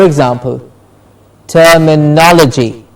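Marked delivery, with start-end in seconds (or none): 1.5-2.8 "terminology" as ter-mi-NOL-uh-jee; stress before -logy. Shown as a demonstration. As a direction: model "terminology" with weight on "no". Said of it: "the syllable before logy is stressed".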